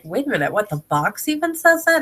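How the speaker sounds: surprised. Retold or imitated. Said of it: "he was like".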